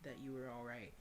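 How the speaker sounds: soft, measured reading; story narration. A narrator's reading. Player reading a tearful reunion scene, soft story narration. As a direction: read it gently, like a tender story.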